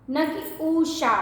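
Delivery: ऊषा with the first vowel held long; wrong long u. Shown as a demonstration. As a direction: show the mistake, long ऊ. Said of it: "ऊषा मतलब wrong".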